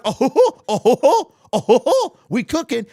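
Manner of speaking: mocking an overexcited fan cheering; mock hype cheer. Mocking fans who want hype, a gleeful cheer. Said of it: "they want me to be like".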